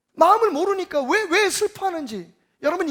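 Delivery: normal talking voice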